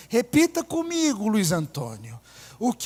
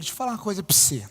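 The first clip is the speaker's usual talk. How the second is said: put-on fast, clipped Minas Gerais accent, vowels swallowed; quick Minas Gerais accent imitation; mineiro accent; 4 semitones lower, 6 dB quieter, much faster than usual. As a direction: rattle it off like a mineiro. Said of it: "vou falar que nem mineiro".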